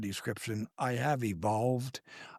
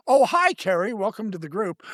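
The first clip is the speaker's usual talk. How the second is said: retold friendly greeting; 6 semitones higher, 5 dB louder than usual. Voices a greeter from the group.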